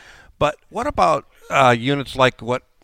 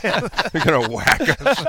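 mobster voice; 6 semitones higher, slower than usual. Pretend. Mocking mobster threat after Jersey joke.

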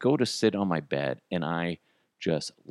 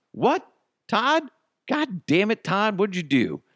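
mock exasperated; 12 semitones higher than usual. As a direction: yell at Todd in mock outrage. Astronaut scolds Todd over toilet.

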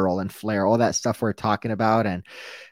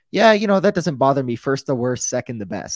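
lightly voiced goofy guy; 2 semitones higher, 5 dB louder than usual. Podcaster quoting a goofy goalie's answer, lightly goofy. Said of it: "he's just, just a goofy, goofy guy".

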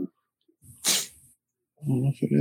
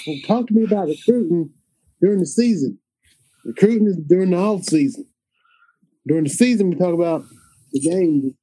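higher-pitched, insistent coach; Dan Mullen; 3 semitones higher than usual. Acted. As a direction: lay down the rule like a football coach. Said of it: "Now do Dan Mullen".

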